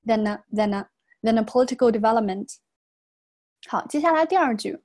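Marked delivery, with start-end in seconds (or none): 0.1-2.6 "than a" run together as "tha-na"; linked words. Shown as a demonstration. Teacher demonstrates liaison, "than a" joined as one word. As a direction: glue the N of than onto a. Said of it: "那么合到一块儿".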